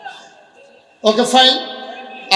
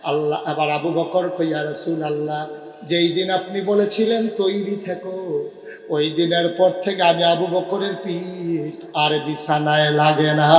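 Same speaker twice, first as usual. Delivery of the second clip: melodic chanted narration with stretched endings; preacher's lament, final word held long; sermon storytelling. A narrator's reading. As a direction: draw out the holy tale in a lilting cadence.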